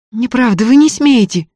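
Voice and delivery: high, hot outburst of protest; heated shout. A narrator's reading. Varya flaring at the student, high heated cry. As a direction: flare up and cut him off. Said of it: "запальчиво закричала Варя".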